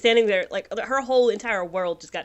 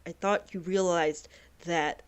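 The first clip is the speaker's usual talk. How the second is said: heartbroken whisper; 2 semitones lower, 8 dB quieter than usual. Acted. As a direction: speak quietly through heartbreak. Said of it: "So she's like".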